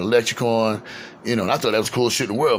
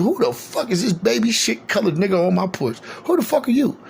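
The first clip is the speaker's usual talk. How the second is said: higher, mock furious cussing; cussing lady at the door; 10 semitones higher than usual. Lady at the door cussing out the stranger on her porch, high mock yell. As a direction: bark it like a grandma who found a stranger on her porch. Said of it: "black lady, said".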